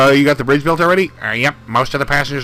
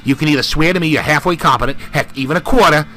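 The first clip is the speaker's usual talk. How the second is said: louder, barking drill captain; gruff army captain; 4 dB louder than usual. Acted. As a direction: boss the recruits around like a captain.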